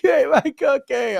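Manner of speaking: loud, high mock bawl; imitated kid crying. Kid accusing dad of eating the cookie, mock crying. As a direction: wail it like an outraged little kid. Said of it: "they're, like, crying".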